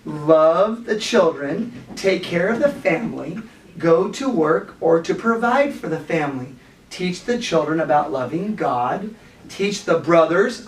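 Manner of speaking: put-on slow, measured reading to children. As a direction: read it out slowly, phrase by phrase. Reads aloud to children.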